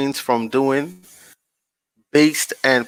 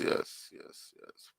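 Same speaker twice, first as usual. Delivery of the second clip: breathy unvoiced whisper of yes; 19 dB quieter, slower than usual. Real, not acted. Whispering yes to himself while screen sharing. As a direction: murmur the yeses under the breath.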